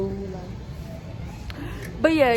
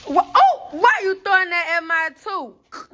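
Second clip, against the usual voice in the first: startled protest; 4 semitones higher than usual. Real, not acted. Snow thrown at the speaker.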